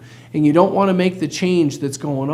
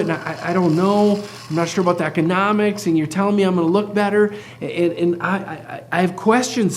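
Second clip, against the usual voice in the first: stumbling over the words; stammering, repeating the first word; stuttering. Real, not acted. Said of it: "they're literally stuttering just like I am right now".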